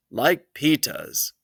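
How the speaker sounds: put-on slow, childish lisp on Peta's; a small boy wanting his brother's shoes; little kid voice. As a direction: say Peta's like a toddler, drawn out. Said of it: "he said".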